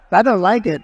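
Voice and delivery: blurted loud displeasure at his own hair on screen; complaining loudly, half joking, about his hair; loud complaint. Real, not acted. Speaker sees his hair on the big screen, loud complaint. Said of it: "I'm looking at my hair up there".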